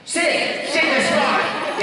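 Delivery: a light take on the lisping sloth; Sid from Ice Age. Retold or imitated. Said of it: "what's his name from Ice Age".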